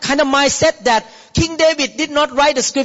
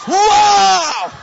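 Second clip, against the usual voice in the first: amazed wow; 7 semitones higher, 3 dB louder than usual. Acted. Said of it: "I see the picture of samurai".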